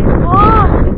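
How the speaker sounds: high squeaky why; rabbit eyes asking. Pretend. Rabbit eyes plead to the rabbit owner, high squeak. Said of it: "Their eyes say".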